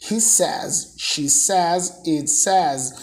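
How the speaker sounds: "says" as "sez", ending in a voiced Z; says with Z sound. Shown as a demonstration. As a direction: let "says" end on a buzzing Z, short E vowel. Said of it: "fica o sonzinho de Z".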